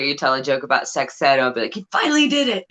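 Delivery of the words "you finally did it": high squeaky mock praise; playful high cheer; mock proud friend. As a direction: tease like a proud parent. Imitating future self reacting to joke.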